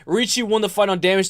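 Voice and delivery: normal talking voice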